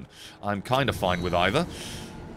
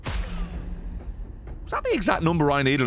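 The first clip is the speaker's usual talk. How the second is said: high drawn-out; 7 semitones higher, slower than usual. Real, not acted. Drawn-out disbelief.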